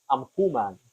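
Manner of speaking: I'm human said like a dog would say it; gruff little dog saying I'm human; mock dog voice. Shown as a demonstration. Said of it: "the way my dog would say it".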